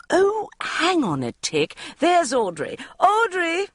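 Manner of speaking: high, sing-song hail across the room; calling out. A narrator's reading. Una spotting Audrey across the party, calling high. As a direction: call to a friend across the party.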